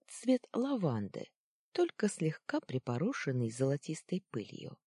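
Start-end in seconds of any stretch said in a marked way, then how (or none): none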